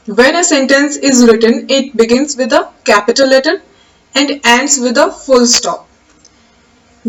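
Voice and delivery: slow, measured reading of a definition; slow dictation. Acted. Teacher dictating the definition slowly to the class. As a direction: read it out slowly so students can write.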